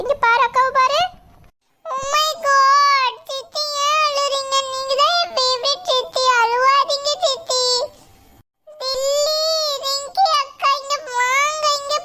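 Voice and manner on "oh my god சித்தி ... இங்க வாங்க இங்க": put-on high childish voice, a bit urgent; a kid fussing over crying aunt; little child. Child calling big sister because aunt is crying, high childish.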